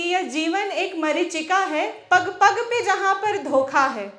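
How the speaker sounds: rhythmic, declaimed Hindi verse; poem recitation. Acted. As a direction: recite it as a rousing poem, pausing between lines. Resumes the poem.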